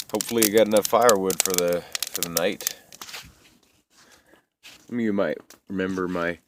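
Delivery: lips numb from the cold, words stiff; cold mouth. Real, not acted. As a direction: talk through a frozen mouth, cold mouth slurring. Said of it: "hard to talk 'cause my mouth is cold".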